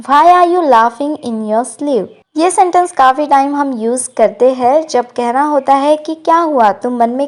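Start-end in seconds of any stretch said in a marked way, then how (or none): 0.1-2.1 slow, clear English model line; slow model sentence. Shown as a demonstration. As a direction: spell it out gently for learners. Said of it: "So तुम क्यों मन में हंस रहे हो". (धीरे और साफ़ अंग्रेज़ी वाक्य)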